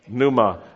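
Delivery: "pneuma" said NOO-muh, with a silent p; the word "pneuma" with no p sound at the start; Greek word pneuma. Shown as a demonstration. Preacher teaches the congregation the Greek word, silent p. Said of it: "say that".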